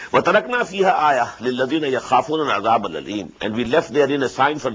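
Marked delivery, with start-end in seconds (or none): 0.1-3.3 rapid Quranic recitation; quick recitation. Acted. Teacher reciting the verse quickly before explaining. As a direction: rattle off the verse briskly.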